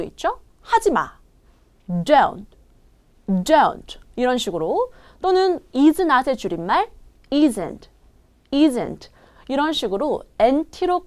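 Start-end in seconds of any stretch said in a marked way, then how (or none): 1.9-4.0 "Don't" with the T barely released; unreleased final T. Shown as a demonstration. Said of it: "거의 T 발음이 세게 나지 않는데요". 7.3-9.1 "isn't" with the T hardly sounded; soft final T. Shown as a demonstration. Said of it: "거의 T 발음이 세게 나지 않는데요".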